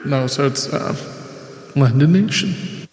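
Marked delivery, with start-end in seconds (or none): 1.8-2.9 slow announcer call with echo; town crier. Shown as a demonstration. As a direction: boom it out like a herald. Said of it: "I should always do it with the echo".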